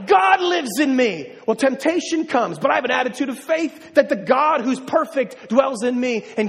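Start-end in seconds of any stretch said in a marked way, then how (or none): 0.1-1.3 slow, loud and high, each word weighted; emphatic declaration. Acted. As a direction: proclaim it as your own. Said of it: "Think about it".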